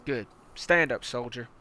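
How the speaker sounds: hard-nosed commander barking orders at a recruit; menacing armored battalion commander; tank commander. Acted. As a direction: lean in like a brutal drill sergeant. Commander voice again.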